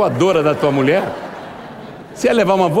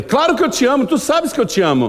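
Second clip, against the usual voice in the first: high, breezy "of course I love you"; mock glib reply; 9 semitones higher than usual. Preacher mimicking a careless worker's reply to Jesus, breezy. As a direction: toss off the love claim lightly, hollow. Mocking a lazy believer's claim.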